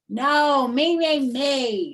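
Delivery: loud high rival shout. Acted. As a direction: outshout the other girl. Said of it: "shouted May even louder".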